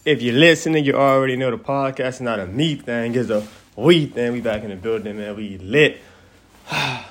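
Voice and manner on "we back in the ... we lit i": out of breath. Real, not acted. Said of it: "sound out of breath, y'all".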